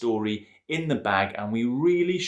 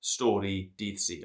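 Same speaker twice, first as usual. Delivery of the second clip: Welsh greeting; 6 dB louder than usual. Shown as a demonstration. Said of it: "I think I got away with that".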